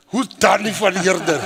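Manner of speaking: mildly baffled retold question; toned-down puzzled question. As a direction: ask it politely, a touch puzzled. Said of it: "Now, let me be honest".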